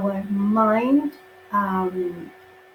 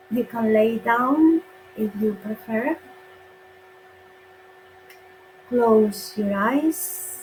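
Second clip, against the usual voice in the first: unhurried instructions with long pauses and rising ends; guided meditation. Acted. Guide to online meditators settling down, guided meditation. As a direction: lead them gently into the breath, phrase by phrase. Starts leading the healing meditation.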